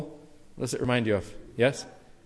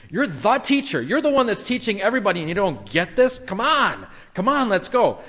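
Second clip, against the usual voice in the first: teasing, needling rabbi, pitched higher; trash talk; 6 semitones higher than usual. Retold or imitated. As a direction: rib him like a rival debater. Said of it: "He's talking a little bit of trash there".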